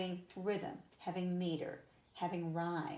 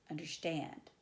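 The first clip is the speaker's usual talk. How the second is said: understand leaning on final "stand"; two light syllables in understand, then land on "stand"; anapest stress. Shown as a demonstration. Teacher giving an anapest example, understand stressed on "stand". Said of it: "an example of anapest".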